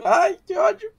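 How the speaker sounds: high, loud burst of annoyance; frustrated outburst. Real, not acted. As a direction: blurt out real frustration. Missing the lightning card, frustrated.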